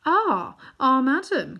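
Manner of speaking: put-on high, breathless gasps of a flustered old man; gasping. A narrator's reading. Uncle Andrew gasping before the witch queen. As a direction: gasp it out, caught off guard. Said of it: "gasped Uncle Andrew".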